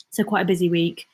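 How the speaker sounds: breathless, catching her breath. Real, not acted. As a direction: talk between breaths. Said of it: "I'm out of breath".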